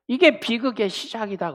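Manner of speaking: whispered aside. Real, not acted. Preacher whispering the point to the congregation. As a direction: lean in and whisper it.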